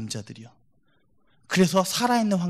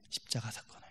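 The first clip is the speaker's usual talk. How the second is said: 십자가 사건을 repeated in a much softer whisper; whispered echo; 6 semitones lower, 17 dB quieter than usual. Shown as a demonstration. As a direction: let 십자가 사건을 fall to a breathy whisper. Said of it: "whispered repeat of the phrase".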